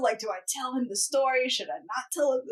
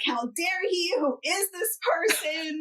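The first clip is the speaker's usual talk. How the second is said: mock outrage; 5 semitones higher, slower than usual. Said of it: "I'm outraged".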